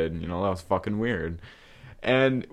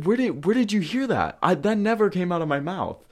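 much higher and louder, near a shriek; outraged denial; 11 semitones higher, 3 dB louder, faster than usual. Retold or imitated. Denying the rumor to the friend, high outraged protest. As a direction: protest like you can't believe your ears.

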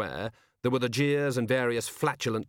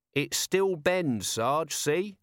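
slow, higher, eager little soldier; Nobby's voice; 5 semitones higher, much slower than usual. Acted. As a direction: spell it out to the sergeant, slowly.

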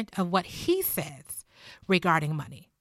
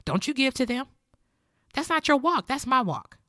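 in-your-face scolding; 5 semitones higher than usual. Retold or imitated. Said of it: "Christians who will tell you, uh, dead in your face".

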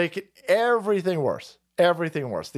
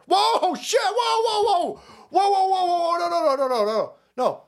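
mock alarm, laughing; 13 semitones higher than usual. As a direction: pretend shock, breaking into laughs. Mock alarm at his own words.

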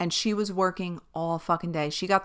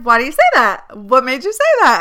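louder, pressing, defensive questions; insecure and defensive; 5 semitones higher, 11 dB louder than usual. Retold or imitated. Retelling how she grilled the nurse, louder and defensive. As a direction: push back at the nurse, feeling insecure. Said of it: "I started getting like".

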